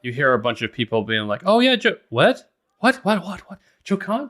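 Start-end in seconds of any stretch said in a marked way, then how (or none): 1.4-4.3 high, rising crowd chatter; startled villagers. Acted. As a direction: villagers asking over each other. GM voices murmuring crowd.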